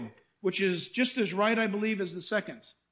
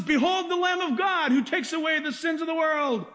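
proclaiming shout; 4 semitones higher than usual. Retold or imitated. John the Baptist announces Jesus to the crowd, shouting. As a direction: proclaim it like a prophet crying out. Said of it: "when John says".

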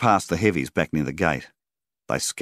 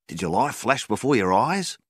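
lightening the mood; 7 semitones higher than usual. A narrator's reading. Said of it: "trying to lighten the situation".

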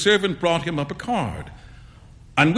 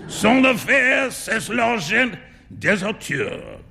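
amused Trevor; 8 semitones higher than usual. A narrator's reading. Trevor laughing, mock French.

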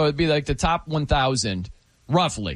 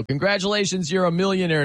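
a mock grand prize announcement, lightly pitched up; mock envelope announcement; 5 semitones higher than usual. Host reading a fake prize envelope, mock announcement. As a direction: read it like a glossy prize notice. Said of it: "funny if that's what the envelope actually said".

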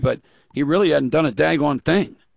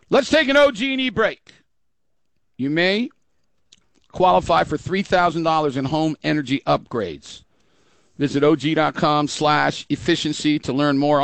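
upbeat radio ad read. Acted. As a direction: sell it like a live spot. Host reads live ad spot.

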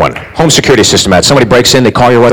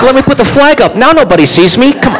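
dumb burglar; 7 semitones higher than usual. Retold or imitated.

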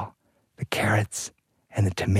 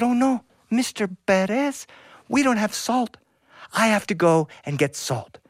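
dismayed wife; 8 semitones higher than usual. Acted. Wife alarmed at missing salt.

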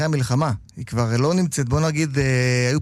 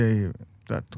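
ordinary delivery

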